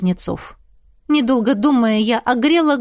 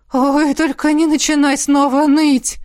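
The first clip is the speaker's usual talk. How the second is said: higher-pitched fed-up outcry; raised, exasperated voice; exasperated exclamation; 5 semitones higher, 4 dB louder than usual. A narrator's reading. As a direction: cut off the whining impatiently. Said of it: "хором воскликнули эльфы".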